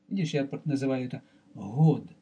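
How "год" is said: ГОД with a voiced breathy Latin h; правильное произношение. Shown as a demonstration. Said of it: "Это правильное название". («год» со звонким придыхательным «г»)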